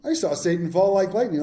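dry, mildly sarcastic Jesus; a hint of who-cares sarcasm; a bit sarcastic. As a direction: toss it off with light sarcasm. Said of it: "that it was a bit sarcastic".

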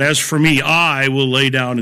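"I" stressed and held out; emphatic I. Shown as a demonstration. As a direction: lean on the word "I" to bring it out. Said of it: "that kind of thing to bring it out".

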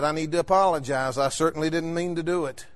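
low, soft, subdued apology; meek retold apology. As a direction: act out humbly calming an angry driver. Apologising to the angry driver.

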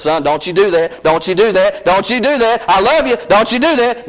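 gentle, rising plea, lightly voiced; a fatherly voice begging son not to; pleading Holy Spirit. Holy Spirit pleading with son, lightly voiced. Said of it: "the Holy Spirit says".

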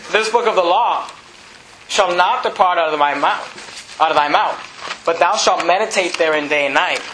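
slow, measured scripture reading; deliberate verse reading. Real, not acted. Preacher reading Joshua's promise to church, slow and deliberate. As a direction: read it out slowly, phrase by phrase.

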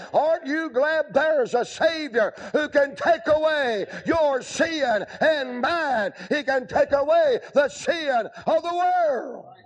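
fervent revival preacher; preaching at full force. Acted. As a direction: call sinners to the altar. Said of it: "jumped up and said".

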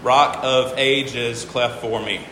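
slow, each syllable of "Rock of Ages, cleft for me" spoken apart; syllables counted out. Shown as a demonstration. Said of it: "count the number of syllables per line".

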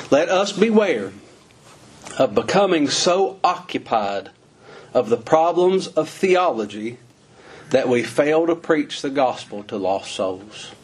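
very slow, deliberate reading with pauses. Real, not acted. Preacher reading a brother's written warning, slowly and deliberately. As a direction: read it slowly, phrase by weighty phrase. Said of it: "I wanna read this slowly".

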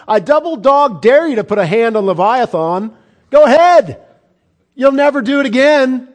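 booming high voice of God daring man; God's thundering challenge. Acted. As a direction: roar it down as the Creator confronting Job. Preacher voices God challenging Job.

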